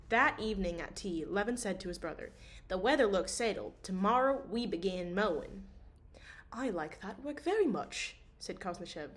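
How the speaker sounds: steady audiobook reading; story narration. A narrator's reading. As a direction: read the novel calmly aloud. Reads novel chapter aloud.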